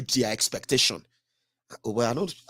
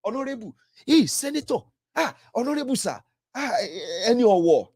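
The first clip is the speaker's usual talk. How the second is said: mocking flatterers; 5 semitones higher than usual. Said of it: "to make them look like".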